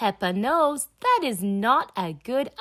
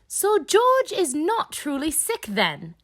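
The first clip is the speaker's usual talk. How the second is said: disappointed; 8 semitones higher, 4 dB louder than usual. Acted.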